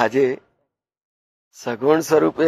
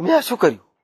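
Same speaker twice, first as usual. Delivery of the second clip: mild retold dismay; 5 semitones higher, faster than usual. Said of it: "હાય હાય કરીને એને તો ચીસ પાડી દીધી".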